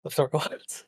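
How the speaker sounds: a startled laugh, then a baffled "what?"; laughing disbelief. Real, not acted. Guest reacting to the Sharia cop remark with laughing disbelief.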